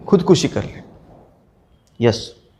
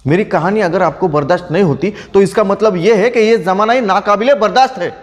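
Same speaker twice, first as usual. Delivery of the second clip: impassioned indictment; 3 semitones higher than usual. Acted. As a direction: pitch climbing through a rhetorical climax. Climax of writer's defence against accusers. (जोश में चढ़ते सुर के साथ आरोप)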